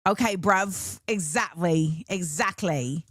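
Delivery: low, put-on British slang voice; mock British accent. Joking after quoting British rappers, mock British accent. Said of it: "talk about it in a British accent".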